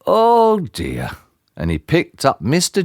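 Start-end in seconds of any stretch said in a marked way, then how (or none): 0.1-1.1 kindly concern, pitch lifted then falling; a higher, sympathetic sigh of words. A narrator's reading. Kindly tramp seeing someone lying fainted, concerned. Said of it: "he was a kindly tramp".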